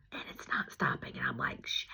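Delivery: barely voiced panic at the leak; hushed curse; whispered dismay. Leak won't stop.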